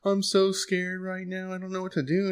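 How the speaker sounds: imitating scared crier. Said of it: "she's freaking out, she's crying".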